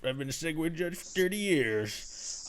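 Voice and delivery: put-on crusty judge voice; old judge character. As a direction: play a fussy old judge. Playing a veteran segue judge.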